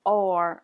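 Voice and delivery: R from the throat, guttural; gargled French R. Shown as a demonstration. Teacher demonstrates infamous French R. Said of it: "the very infamous".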